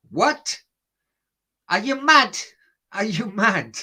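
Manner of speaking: can't believe the cheek; outraged disbelief. Real, not acted. Outraged reaction to viewer.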